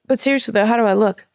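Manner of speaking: lightly imitated Louisiana accent; undeterred, with a slight Louisiana twang; Louisiana stepdad. Stepdad still asking about his gear, light Louisiana accent. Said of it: "he's from Louisiana".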